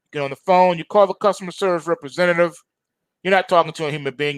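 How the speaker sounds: usual speaking voice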